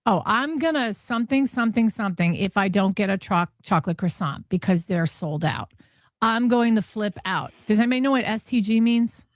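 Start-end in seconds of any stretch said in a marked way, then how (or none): 0.1-7.5 mocking repeat. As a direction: parrot her back with a sneer. Mocking repeat of her text.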